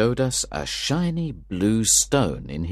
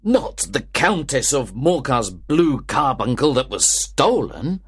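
louder, higher astonished question; surprised cry; 7 semitones higher, 4 dB louder than usual. Acted. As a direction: gasp out the name of the stolen jewel. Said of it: "I cried".

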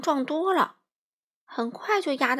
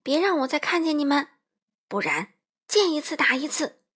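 higher, threatening yell; yelling after them; 5 semitones higher, 3 dB louder than usual. A narrator's reading. Wolf threatening the fleeing pair, yelling. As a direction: warn them off for good. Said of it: "帅狼在他们身后嚷嚷道".

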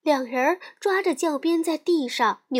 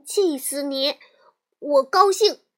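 taunting shout; 5 dB louder than usual. Acted. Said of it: "栗子冲她喊".

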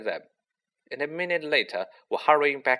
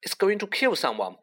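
shout; 8 semitones higher than usual. A narrator's reading. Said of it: "he shouted".

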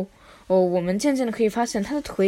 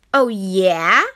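challenging; 4 dB louder, much slower than usual. Acted. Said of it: "said Flat Petty".

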